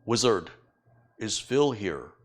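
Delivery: put-on a modest try at a Hopi Native American accent; imitating Native American accent. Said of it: "in that really unique American Indian accent".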